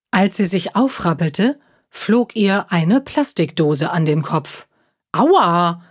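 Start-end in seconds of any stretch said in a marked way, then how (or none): 5.1-5.8 mild mock cry of pain. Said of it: "schrie Luna".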